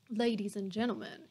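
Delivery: put-on the judge's Southern accent, grave. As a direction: open the address gravely in a Georgia accent. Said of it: "he began gravely".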